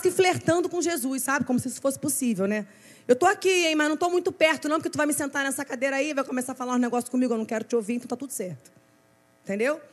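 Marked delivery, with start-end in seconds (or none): 3.1-8.7 acted skittish backpedalling, tailing off at the end; evasive excuse. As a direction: fend him off quickly while acting agreeable. Acts out believer dodging confrontation.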